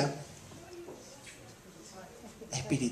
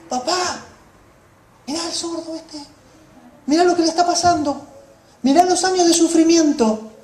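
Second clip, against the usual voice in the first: pleading prayer to the Father, rising then hushed; earnest pleading prayer; Jesus praying to the Father; 4 semitones higher than usual. Acted. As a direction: beg the Father, building then dropping to a hush. Jesus praying aloud for the deaf man.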